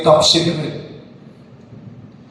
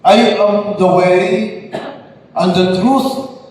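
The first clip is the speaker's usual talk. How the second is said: gospel proclamation; 2 semitones higher, slower than usual. Acted. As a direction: proclaim it to the whole church. Priest proclaims the gospel at mass.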